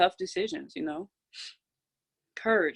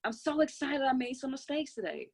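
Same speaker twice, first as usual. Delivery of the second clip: excited, higher; 4 semitones higher than usual. Shown as a demonstration. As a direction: pitch it up with real joy. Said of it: "God, I'm so happy and grateful".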